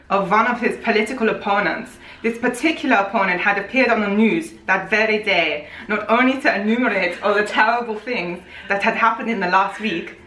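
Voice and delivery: badly faked German accent. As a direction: attempt a German accent and miss. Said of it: "German, man".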